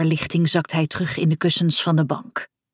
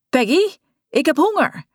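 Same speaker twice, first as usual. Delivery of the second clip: calling out; 8 semitones higher than usual. Acted. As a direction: call his wife, hungry and impatient. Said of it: "riep hij".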